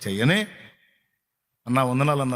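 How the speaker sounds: ordinary talk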